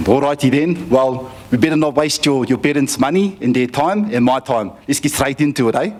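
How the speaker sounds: brisk imitation of a South African coach; South African accent. Coach hurries boy into lesson, mock South African accent. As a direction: get down to business in a put-on South African accent. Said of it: "I've never heard this accent before".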